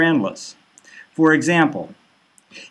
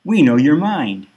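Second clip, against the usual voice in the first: ominous news anchors. Acted. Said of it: "news things say".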